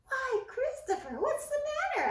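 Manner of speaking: high alarmed little mouse; alarmed Ced. A narrator's reading. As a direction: cry out in sudden worry. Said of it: "asked Ced".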